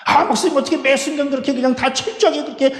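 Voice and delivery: high-pitched mock grumble; complaining congregant. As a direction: protest to the pastor that it is too much. Acts out weary congregant's complaint to pastor.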